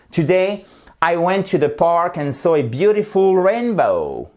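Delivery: phrase anglaise soigneusement articulée, plus haute; exemple à haute voix. Shown as a demonstration. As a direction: lis l'exemple anglais à voix haute, comme un prof. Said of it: "prononcer à haute voix". (lecture modèle à haute voix)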